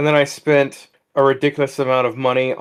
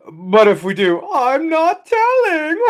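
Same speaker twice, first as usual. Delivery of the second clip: mock Trump voice; 5 dB louder, slower than usual. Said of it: "our president was just like".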